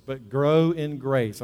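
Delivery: slow, drawn-out "grow in grace"; emphasis on grace. Real, not acted. Preacher reading scripture to the congregation, emphasis on grace. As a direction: read it slowly, giving "grace" its own weight. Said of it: "I always want to emphasize that word grace".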